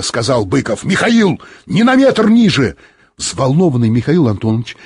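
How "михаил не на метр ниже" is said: high, loud prohibition; sharp order. A narrator's reading. Bykov forbids the pilot to descend, sharply. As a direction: forbid it with a raised voice.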